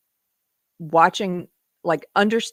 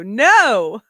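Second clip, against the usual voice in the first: mock shout; 3 semitones higher, 8 dB louder than usual. Mock outburst.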